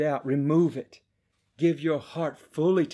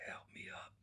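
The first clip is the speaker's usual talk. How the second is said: imitating a son too weak to speak; barely audible, voiceless plea; weak whisper; 24 dB quieter, faster than usual. Sick son asking his father for help, weak whisper. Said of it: "just barely able to whisper".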